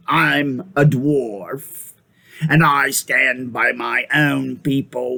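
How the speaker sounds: cold voice. Acted. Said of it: "in a cold voice".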